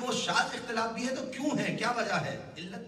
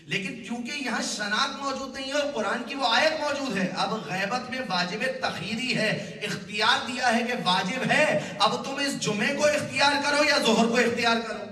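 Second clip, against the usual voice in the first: emphatic preaching, building louder; forceful preaching; 3 semitones higher, 4 dB louder than usual. Real, not acted. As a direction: press the ruling home, rising in volume. Preacher drives the argument home.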